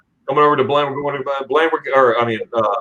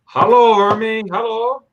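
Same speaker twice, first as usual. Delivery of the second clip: much higher, sing-song hello; high greeting; 9 semitones higher, slower than usual. Real, not acted. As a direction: croon hello to a friend. Greeting a viewer in chat.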